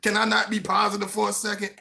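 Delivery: high, loud whining protest; answering the shoulder voice with a high, loud pout; pouty attitude. Retold or imitated. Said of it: "I wanna pout and have an attitude".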